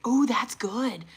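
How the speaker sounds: slow, breathless whisper of delight. Real, not acted. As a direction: hush it out, pleased. Quiet delight at result.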